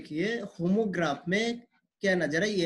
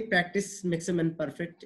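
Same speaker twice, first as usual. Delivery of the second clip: slow proverb emphasis; 3 dB quieter, much slower than usual. Shown as a demonstration. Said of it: "again I am repeating this sentence".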